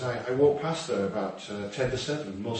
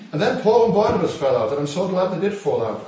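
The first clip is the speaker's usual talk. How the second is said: emphatic preaching; 6 semitones higher, 7 dB louder than usual. Real, not acted. Preaching climax on Paul.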